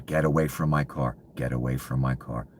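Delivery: retelling a shout at people by his car; retold yell. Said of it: "I'm yelling".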